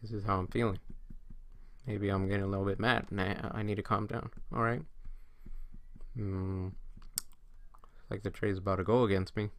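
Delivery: inner monologue, under control; talking to oneself. Acted. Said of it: "talking to yourself".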